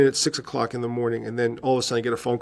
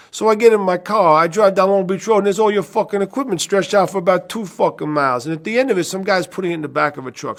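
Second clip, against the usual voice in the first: Uncle Ralph; 8 semitones higher, 5 dB louder than usual. Retold or imitated. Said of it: "Ralph retells loudly".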